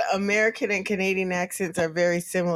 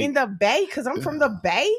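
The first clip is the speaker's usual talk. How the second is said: Bay Area lilt, ends rising; Northern California accent; 2 semitones higher than usual. Shown as a demonstration. Boasting of the Bay, Northern California accent. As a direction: turn phrases upward, Northern California style. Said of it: "Northern California".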